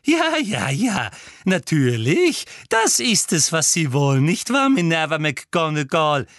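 high, loud hysterical tirade; frenzied, triumphant rant; shrieking accusation. A narrator's reading. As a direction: screech it as if unmasking a plot. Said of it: "kreischte Professor Umbridge".

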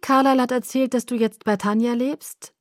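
angespannt hoch, deutlich über der normalen Lage; zu hohe Stimme. A narrator's reading. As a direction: mit zu hoher Stimme nachfragen. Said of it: "Meine Stimme war zu hoch". (zu hoch geratene Stimme)

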